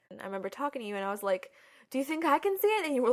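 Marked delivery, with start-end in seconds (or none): 1.9-2.9 raised pitch, lightly acted plea; mildly imitated eager question; hopeful request. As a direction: retell asking permission, voice lifted. Child retelling their hopeful request.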